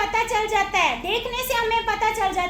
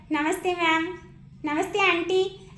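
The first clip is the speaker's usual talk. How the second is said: polite greeting; 3 semitones lower than usual. Retold or imitated. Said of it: "शालीनता से बोलता है".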